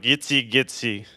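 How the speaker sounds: lightly mock Eastern European gibberish; a hint of invented Eastern European; vaguely Eastern European. Comedian putting off a Hanoi tout, in fake Eastern European. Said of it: "a vaguely Eastern European made-up language".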